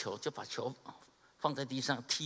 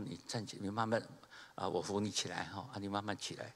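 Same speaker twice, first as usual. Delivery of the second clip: gentle reassurance; 4 semitones lower, 6 dB quieter than usual. Retold or imitated. Helping the hurt caddy up.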